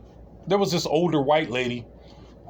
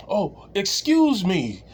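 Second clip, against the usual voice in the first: flustered apology; 4 semitones higher, much slower than usual. Retold or imitated. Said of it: "she was like".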